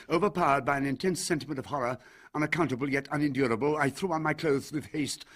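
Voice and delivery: loud, fast and high, in rising panic; breathless frightened outburst; mounting horror. A narrator's reading. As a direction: race through it as terror takes hold. Narrator overpowered by horror, pacing.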